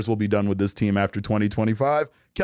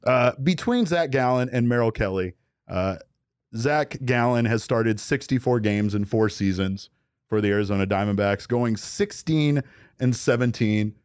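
southern attorney. Pretend. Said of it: "southern attorney, sir".

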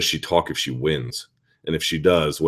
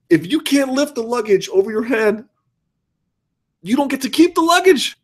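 exasperated rant. Real, not acted. Ranting at luggage packers.

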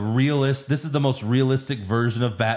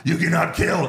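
mock stern Batman; 8 semitones higher, 5 dB louder than usual. Batman lecturing his own Batmobile, hammed up high and loud. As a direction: play Batman teaching his car morals, laughing.

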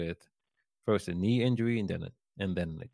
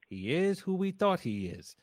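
famous rant quote; 9 semitones higher than usual. Retold or imitated.

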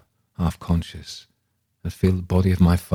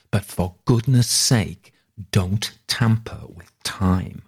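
raised, slow insistent outcry; exclaiming; 3 semitones higher than usual. Pretend. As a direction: bang the table and exclaim it. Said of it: "banging the table and exclaiming".

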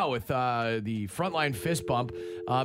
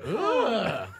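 disgusted ugh; 4 semitones higher than usual. Retold or imitated. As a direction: groan in disgust. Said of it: "Oh, I was like".

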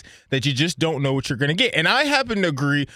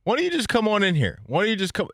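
calling out; 8 semitones higher than usual. Real, not acted. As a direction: call out through the glass, pitched up. Calling to guy behind glass.

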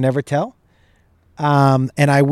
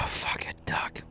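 breathy whisper, almost silent; 19 dB quieter, slower than usual. Real, not acted. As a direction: let it slip out under the breath. Gives up holding breath.

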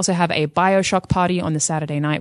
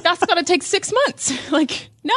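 high, slow, laughing protest; laughing disbelief; 12 semitones higher, slower than usual. Real, not acted. Host laughing off making a costume in a week. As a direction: laugh it off as impossible.

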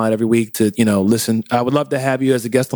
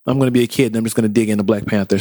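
put-on eager kid; 5 semitones lower, much faster than usual. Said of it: "It was more like".

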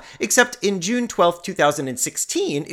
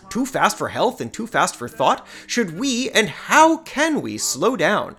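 put-on old man voice; 3 semitones higher than usual. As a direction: read it like a fussy old man. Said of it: "all these questions literally are from the piece".

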